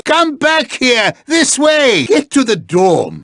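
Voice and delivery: high, insistent call; calling back sharply. Acted. Calling a straying student back.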